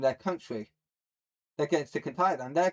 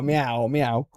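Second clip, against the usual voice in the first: cat meows; 2 semitones lower, 4 dB louder than usual. Pretend. Streamer making cat noises into mic.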